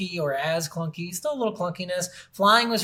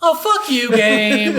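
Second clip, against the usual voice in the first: loud, high cursing at the game; mock rage at game; 5 semitones higher, 9 dB louder, much slower than usual. Gamer retelling how he cursed out the boxing game, loud mock rage. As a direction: yell it at the screen like you've lost it.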